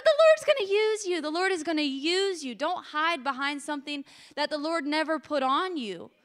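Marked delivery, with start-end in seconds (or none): 0.0-1.2 high and cracking, nearly in tears; tearful blessing; voice still cracking. Real, not acted. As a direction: push through the tears. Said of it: "As my voice still cracks".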